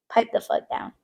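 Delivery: under-the-breath whisper telling someone to shut up; whispered aside. Retold or imitated. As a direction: hiss it low, just for us. Telling off a pushy stranger.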